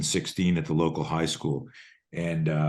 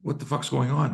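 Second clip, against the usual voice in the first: put-on panicked kid; 6 semitones higher than usual. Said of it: "And I'm freaking out".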